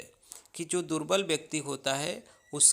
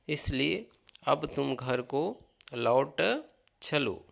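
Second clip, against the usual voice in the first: gentle plea; slower than usual. Acted. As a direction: coax him gently, drawn out. Pleading Ram to return home.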